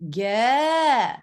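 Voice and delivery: "Ge" gliding up and down; pitch movement. Shown as a demonstration. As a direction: make "Ge" travel in pitch. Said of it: "So my voice went".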